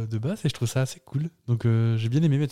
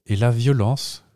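slow, deliberate dramatic reading; spoken lyric recitation; 2 semitones lower than usual. Acted. Host reciting the next translated song, slow solemn recitation. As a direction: recite it gravely, line by line. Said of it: "je les restitue parlées".

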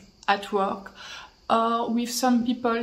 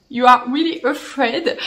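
laughing; 5 dB louder than usual. Real, not acted. Joking about fear of wigs.

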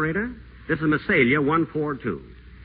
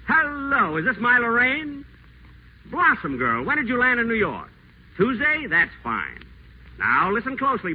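gushing charm; 4 semitones higher than usual. Acted. Whiteside sweet-talks Lorraine on phone.

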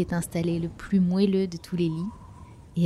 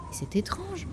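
étonné; 10 semitones higher, 8 dB quieter, slower than usual. A narrator's reading. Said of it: "dit le petit homme".

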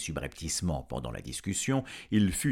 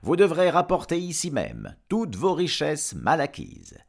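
raised, loud official proclamation; pompous rector, stern; 8 semitones higher, 5 dB louder than usual. Acted. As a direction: pronounce solemn terms to a guilty dragon. Rector delivers terms to dragon. (recteur solennel, voix haute et forte)

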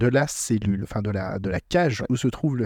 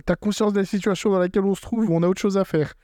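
higher, exasperated Zoro; voicing Zoro; 7 semitones higher than usual. Retelling the scene, as an exasperated Zoro scolding Luffy. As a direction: scold your captain as an annoyed Zoro. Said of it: "t'as Zoro, il fait".

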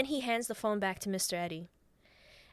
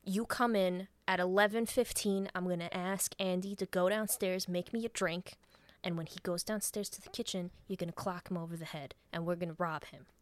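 lightly voiced scheming mastermind; brisk instructions in a lowered, matter-of-fact voice; crime mastermind; 4 semitones lower than usual. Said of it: "she becomes the crime mastermind".

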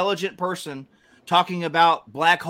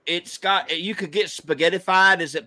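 lightly put-on Southern accent; 2 semitones higher than usual. Smart Southerner explaining black holes, in a mock Southern accent. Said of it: "you say it in a Southern accent".

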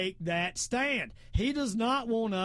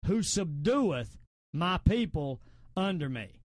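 slow, measured Bible quoting with weighty pauses; solemn, deliberate psalm recital; scripture recitation. Acted. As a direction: deliver the verse phrase by phrase, firmly.

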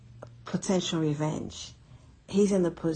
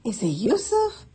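stunned disbelief. Retold or imitated. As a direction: whisper in disbelief, then burst out asking. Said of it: "and they're like".

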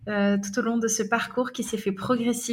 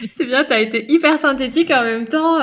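talking through a real laugh; 3 semitones higher, 5 dB louder than usual. Real, not acted. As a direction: laugh while praising her. Host laughs at guest's short answer. (en riant franchement)

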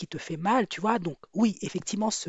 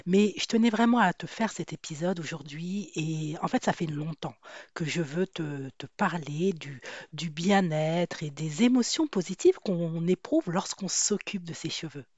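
voice from beyond the grave. Real, not acted. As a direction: speak with a croaky voice from the grave. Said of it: "cette voix d'outre-tombe".

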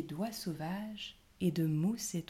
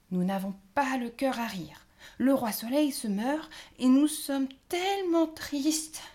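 tearful; 7 semitones higher, 5 dB louder than usual. A narrator's reading. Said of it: "en s'essuyant les yeux".

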